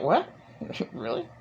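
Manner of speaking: high, laughing "Really?" in mock surprise; disbelief. Her reaction to the celibacy claim, laughing surprise. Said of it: "that I'm like".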